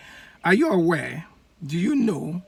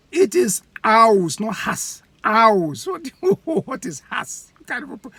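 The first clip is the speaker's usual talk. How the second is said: mocking laugh; 6 semitones higher, 8 dB louder than usual. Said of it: "He laughs at him and said".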